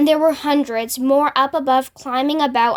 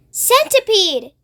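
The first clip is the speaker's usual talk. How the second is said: higher, slow call across the peach; calling shout; 8 semitones higher, slower than usual. A narrator's reading. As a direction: call him up out of the tunnel. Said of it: "they shouted".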